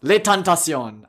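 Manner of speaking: put-on quoting Wilde in clumsy English-accented French; English speaker's French. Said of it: "scold me for my, uh, French accent".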